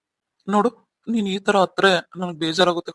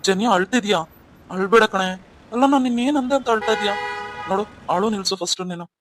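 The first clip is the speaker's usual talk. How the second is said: husband alarmed to find his wife in tears; alarmed concern; 3 semitones higher, 3 dB louder than usual. Acted. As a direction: rush to calm a crying wife.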